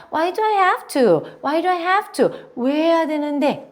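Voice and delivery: high-pitched, stretched-out grumble; scowling, exaggerated "why me" protest; annoyed protest. Shown as a demonstration. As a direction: complain with put-on irritation. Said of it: "인상을 팍팍 쓰고 그런 다음에 어감을 살리셔서".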